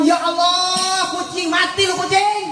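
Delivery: high, drawn-out cry then a scolding shout; mock outraged mother. Mother pretending a cat stole the fish, mock outrage.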